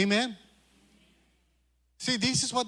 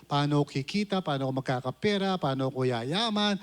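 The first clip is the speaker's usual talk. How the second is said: worldly worrier; 5 semitones lower than usual. Retold or imitated. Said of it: "ganun ang agenda ng mga tao eh".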